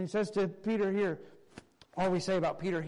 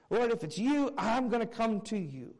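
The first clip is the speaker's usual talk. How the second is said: bolder, higher, sure of himself; confident statement; 3 semitones higher than usual. Acted. Peter calling to Jesus across the water, confident and eager. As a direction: declare it with trust, no test in it. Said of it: "a statement of confidence".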